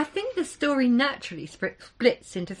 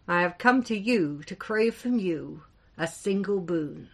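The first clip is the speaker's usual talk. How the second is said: louder, ringing giant's address; strong, resonant voice; 4 dB louder than usual. Acted. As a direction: proclaim it to the whole hall. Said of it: "his voice grew in strength and resonance".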